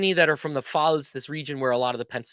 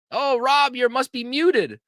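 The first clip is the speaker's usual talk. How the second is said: higher, slowed mock dismay; higher playful concern; surprised; 9 semitones higher, 4 dB louder, slower than usual. Real, not acted. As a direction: gently tease the muted guest. Guest silent on call.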